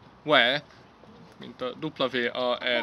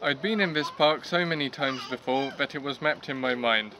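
clear, proper story reading; careful model reading in English; reading nicely. Shown as a demonstration. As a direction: read the passage nicely in English. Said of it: "then I will be reading nicely".

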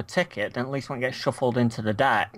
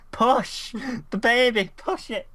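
midwife coaching breathing; 8 semitones higher than usual. Pretend. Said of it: "You sound, you sound like a fucking midwife".

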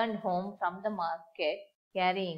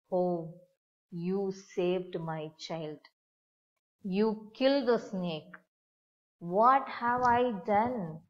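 the mother cries over the mongoose she killed; crying. Acted. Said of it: "she cried".

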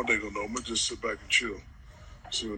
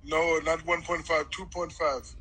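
put-on African accent; 3 semitones higher, slower than usual. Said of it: "You like my African accent?".

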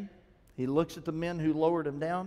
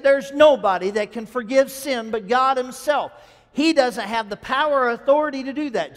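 indignant objection; 4 semitones higher, 7 dB louder than usual. Acted. Scribes objecting to Jesus.

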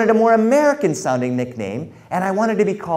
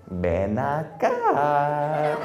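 stern grandmother; 4 dB quieter, much slower than usual. Retold or imitated. Grandmother with wooden spoon.

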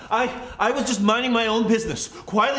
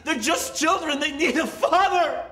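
begging with nervous laughter; desperate pleading; 6 semitones higher than usual. Acted. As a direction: plead for your family.

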